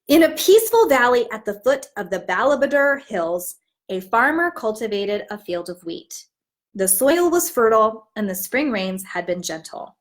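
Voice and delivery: put-on warm, even picture-book narration for young listeners; storybook read-aloud. Teacher reads the story aloud to her class, storytelling voice.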